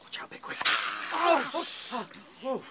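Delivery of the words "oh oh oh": sudden high yelps of fright; three startled gasps of Oh; startled cries. Acted. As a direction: jump at the shock. Startled by the bird.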